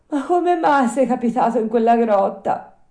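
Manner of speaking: high, loud puppet voice; high-pitched wondering question; curious puppet. Acted. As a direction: ask like an astonished little puppet.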